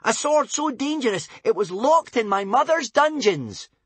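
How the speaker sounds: high, loud boast. A narrator's reading. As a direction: stress locked to scare. Wish voiced.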